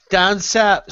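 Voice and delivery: mock southern English "south"; mimicked southern accent. Mocking the mate's claim, imitated southern accent. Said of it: "you put that accent on".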